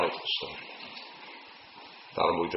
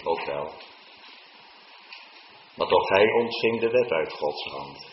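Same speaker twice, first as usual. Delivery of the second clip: ordinary talk, nothing marked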